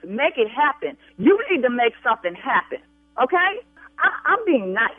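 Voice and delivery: insistent, warning demand. Real, not acted. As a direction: press the agent hard to act. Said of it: "You continue to raise your voice at me".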